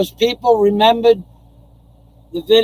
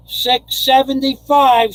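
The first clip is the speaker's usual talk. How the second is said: six seventy-five, stretched out slowly and higher; drawn-out excited call; 4 semitones higher than usual. Real, not acted. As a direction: savour "six seventy-five" as a happy announcement. Excited about donation.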